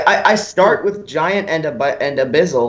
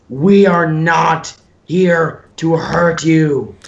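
slow, deliberate booming declaration; manly shout, drawn out; masculine yell; much slower than usual. Acted. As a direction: bellow it slowly to calm them. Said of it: "I yell in my most masculine voice".

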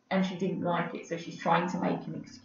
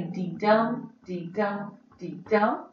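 "dee dum" in steady repeated pairs, landing on "dum"; beating out rhythm; slower than usual. Shown as a demonstration. Teacher telling students to say it out loud, rhythmic chant. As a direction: tap out "dee dum" with the voice, evenly. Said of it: "out loud as you read the line".

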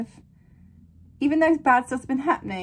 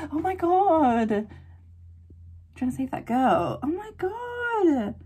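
stunned gasp; 4 semitones higher, slower than usual. Real, not acted. Reacting to shocking scene.

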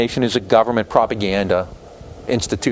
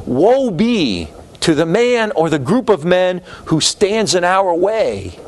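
slow, weighty presidential proclamation; solemn Wilson quote; 6 semitones higher, slower than usual. Retold or imitated. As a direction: intone it slowly like a stern wartime president. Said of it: "Wilson said".

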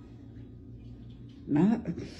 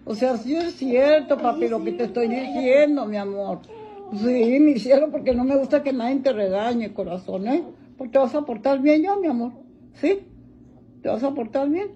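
cooing to pet; 4 semitones higher, 5 dB louder than usual. Real, not acted. Soothing the crying dog.

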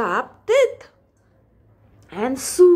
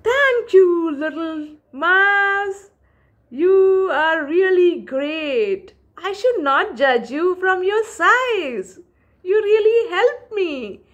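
grateful lion; 5 semitones higher than usual. Acted. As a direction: thank him with humble warmth. Freed lion thanks mouse.

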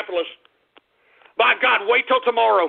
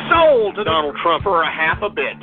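auctioneer patter; 2 semitones lower than usual. Acted. Host running a mock online auction, auctioneer chant. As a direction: rattle off bids like an auctioneer.

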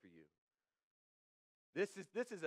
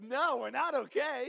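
loud, slow, higher retold refusal; emphatic refusal; 7 semitones higher, 9 dB louder, slower than usual. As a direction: lean hard on every word, firm no. Retelling breakup, refusing her.

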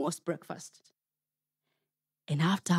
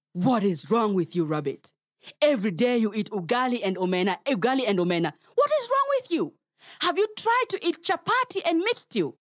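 mocking hyena; faster than usual. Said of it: "you could hear the hyena saying".

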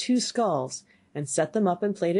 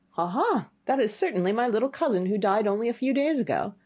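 higher, pleased storybook youth; carefree youth; 4 semitones higher than usual. Acted. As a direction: greet the discovery with naive delight.

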